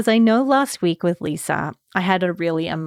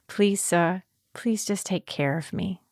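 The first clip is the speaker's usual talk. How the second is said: quiet plea; 6 dB quieter than usual. Retold or imitated. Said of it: "what came up for me was I said".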